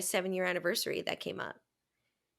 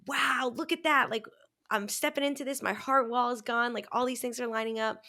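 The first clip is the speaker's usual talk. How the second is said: higher-pitched, pleased retold amazement; upbeat wonder; 5 semitones higher than usual. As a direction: marvel as good things line up. Retelling delighted positive moment.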